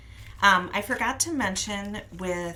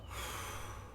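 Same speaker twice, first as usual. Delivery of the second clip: quick puff of air; short blowing exhale; 14 dB quieter than usual. Shown as a demonstration. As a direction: blow the candle out. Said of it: "blow out the candle".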